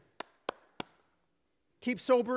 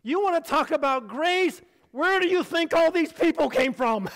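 a hint of cheeky bragging; lightly voiced heavenly boast; proud heaven boast; 4 semitones higher, 4 dB louder than usual. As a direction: show off grace, playfully. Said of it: "it's like".

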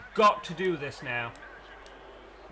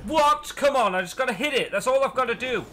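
higher, louder shouts of disbelief; outraged disbelief; 8 semitones higher, 7 dB louder than usual. Real, not acted. Gamer furious as his big slam fails. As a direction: rage at the game.

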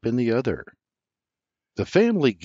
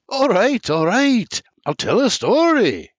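much higher, loud surrender; giving in; 12 semitones higher, 6 dB louder than usual. A narrator's reading. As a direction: give in, playfully beaten. Senior giving in.

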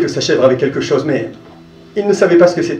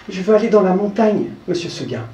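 higher, then fading soft; polite little goat; 4 semitones higher, 4 dB quieter than usual. Acted. The goat turning down Seguin's offer, soft and polite. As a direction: gently decline. Goat states her wish.

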